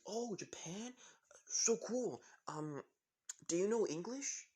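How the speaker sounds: high, wondering, delighted curiosity; excited girl. Acted. Jessie learns the new boy is from Japan, excited. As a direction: lift the pitch high in eager amazement.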